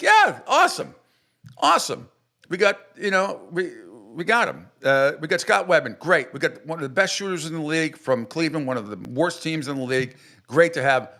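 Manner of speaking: mock enthusiasm. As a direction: fake delight, sarcastic. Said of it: "I was like".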